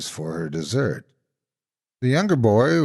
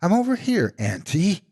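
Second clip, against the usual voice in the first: much higher bright call; 11 semitones higher than usual. A narrator's reading. Little brother calling out to the monster in the dark. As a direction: call out across the dark room. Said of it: "the little brother called".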